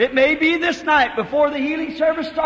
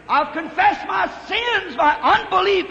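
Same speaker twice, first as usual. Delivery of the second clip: preaching shout; 6 semitones higher than usual. Real, not acted. Preacher proclaiming his confession.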